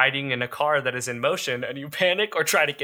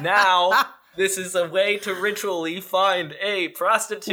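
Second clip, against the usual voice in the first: slow, high comic exasperation; incredulous protest; 4 semitones higher than usual. Real, not acted. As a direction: spell it out in disbelief. Mock outrage at the ritual.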